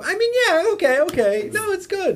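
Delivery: put-on movie-guy voice, laughing underneath; Alec Baldwin. Covering up for the dog headline, mock Alec Baldwin. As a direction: grudgingly reassure in a silly character voice. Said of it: "turned him into Alec Baldwin from Working Girl".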